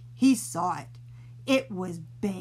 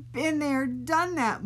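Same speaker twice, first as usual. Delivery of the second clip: moaning; 5 semitones higher than usual. Acted. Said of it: "moaned Oliver".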